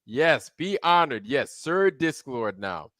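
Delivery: grand ceremonial proclamation; solemn regal knighting. Acted. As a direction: speak like a king knighting someone.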